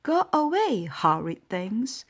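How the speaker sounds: put-on loud, high grumpy shout at children. A narrator's reading. Grumpy old mouse chasing children off, loud shout. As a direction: drive the kids off with a bark. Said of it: "he would shout".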